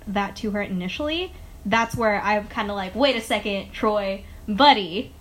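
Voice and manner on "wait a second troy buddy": louder, building to a call. Pretend. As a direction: call out to Troy, louder each phrase. Calling out to Troy.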